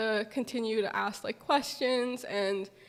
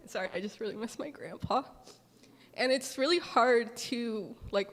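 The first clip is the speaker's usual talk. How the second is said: emotional. Real, not acted. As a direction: rush the apology as the tears come. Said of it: "sorry if I get emotional".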